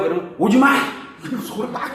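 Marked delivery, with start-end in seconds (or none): 0.4-0.7 loud playful yell, pitch up; grumpy restaurant grandma yelling; mock shout. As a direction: bark it like a gruff granny telling you not to come.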